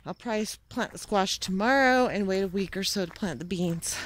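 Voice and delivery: jolted voice while walking; on a bumpy road. Real, not acted. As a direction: talk while bouncing over rough ground. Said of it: "sorry about the bumpy ride".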